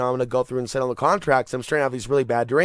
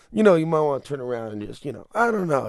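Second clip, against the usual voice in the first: attempted Italian accent. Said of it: "really do an Italian accent here. I'm gonna try".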